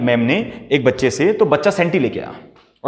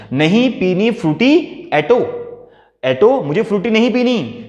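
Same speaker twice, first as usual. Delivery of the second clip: higher, pouting whine naming her mother; sulky refusal; 6 semitones higher than usual. Shown as a demonstration. Daughter refusing the drink, calling mom by name, pouty. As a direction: whine it at mom like a cross child. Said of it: "मतलब माँ का नाम ले लिया".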